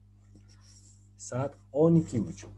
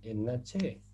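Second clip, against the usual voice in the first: imitating students. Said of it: "Ahora ustedes me van a decir".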